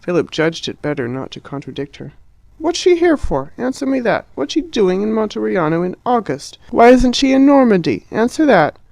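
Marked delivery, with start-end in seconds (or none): 2.6-8.8 high, shrill-pitched outraged questions; Harriet's furious interrogation; furious demand. A narrator's reading. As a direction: demand an answer, indignant.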